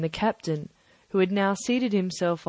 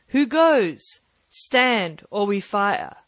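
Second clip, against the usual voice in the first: loud call to a stranger; hailing challenge; 4 dB louder, slower than usual. Acted. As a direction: challenge him from the porch, loud. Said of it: "Then he hailed the buccaneer".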